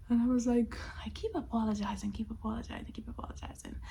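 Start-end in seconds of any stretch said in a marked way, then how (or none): 1.1-3.8 fading to a whisper. Real, not acted. Repetition fading away.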